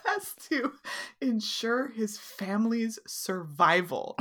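quoting through laughter; laughing. Real, not acted. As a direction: read it while laughing. Quoting the line while laughing.

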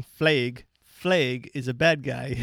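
lightly mocked Wisconsin "Flag" as "flayg"; "Flag" stretched to "flayg", mock Wisconsin; imitating Wisconsin accent. Imitating his co-host's Wisconsin accent from an earlier show. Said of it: "you kept saying".

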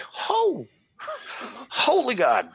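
high, laughing yelp of shock at the price; a hammed-up gasp of sticker shock; shocked exclamation. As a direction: squeal it in disbelief. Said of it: "I was like".

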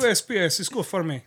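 mock Russian, pleased; hammed-up Russian immigrant voice; Russian accent. Joking about the post, Russian accent. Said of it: "you're killing it with that".

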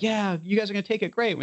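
high-pitched jubilant reaction, retold; cheering celebration. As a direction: voice a delighted group hearing good news. Retold buyers cheering the deal.

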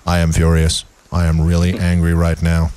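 low monotone fury; stiff, emotionless low voice; deadpan mock anger. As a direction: claim rage with no emotion at all. Mocks speech in deadpan monotone.

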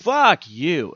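fed up with the film; exasperated viewer. Retold or imitated. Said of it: "I'm sitting there going".

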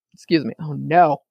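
talking through sudden hiccups; words broken by a hiccup. Real, not acted. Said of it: "I think I might be getting the hiccups".

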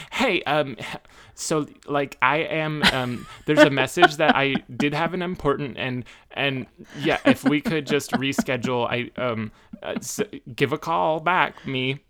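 mild mock panic on the phone; nervous voicemail. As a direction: stumble through it like a frozen caller. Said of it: "I go into freeze".

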